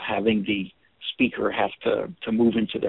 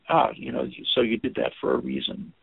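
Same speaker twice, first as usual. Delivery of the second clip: gentle statement; 4 dB quieter than usual. Shown as a demonstration.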